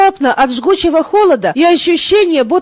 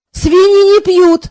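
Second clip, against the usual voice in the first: stubborn retort; 3 semitones higher, slower than usual. A narrator's reading. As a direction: dig in and refuse to concede, slowly. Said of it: "упрямо возразил король". (упрямо и медленно возразить)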